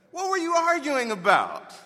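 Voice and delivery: Jesus pressing his disciples with rising force; stronger demand. Retold or imitated. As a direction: push harder, already knowing the answer. Repeated for emphasis.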